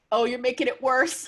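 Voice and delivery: high, loud mock wail; retold crying. Crying fan to the author comforting her, tearful. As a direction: wail it in pretend distress. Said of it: "I just started crying".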